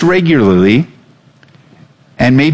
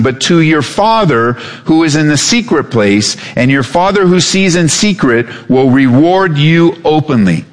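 raised, measured reading of scripture; solemn Bible reading. Acted. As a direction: read the verses out with weight. Reads scripture aloud.

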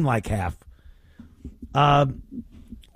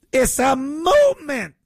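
higher, sarcastic proclamation; mock grandeur; 9 semitones higher than usual. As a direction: puff it up to mock it. Mocking the protesters' words.

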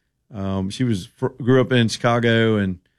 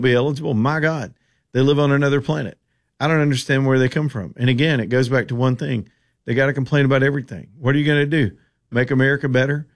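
quoting Tuberville; 3 semitones higher than usual. Retold or imitated. Host reading the senator's quote aloud, lightly voiced. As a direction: read the quote with a touch of his voice. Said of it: "he says".

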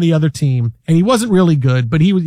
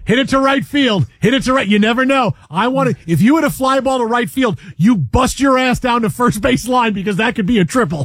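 raised, insistent ballfield holler; old-school ballfield coach; 5 semitones higher than usual. Acted. Old coach urging a hitter down the line, insistent holler. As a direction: urge the batter on, voice pitched up. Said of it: "This is the old".

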